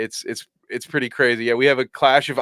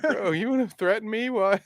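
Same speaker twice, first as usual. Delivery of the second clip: much higher, disbelieving challenge; mock incredulous; 11 semitones higher than usual. Artist answering a threatening client, incredulous and high. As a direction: toss it back in disbelief.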